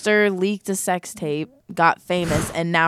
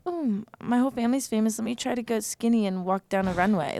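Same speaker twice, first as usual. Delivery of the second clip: put-on mean girl; 5 semitones higher, 7 dB quieter than usual. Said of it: "you sound like a mean girl right now".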